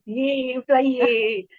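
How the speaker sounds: playful drawn-out cheer; happy cheer. Real, not acted. Happy guest cheering for the host, playful cheer. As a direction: give a little celebratory yay.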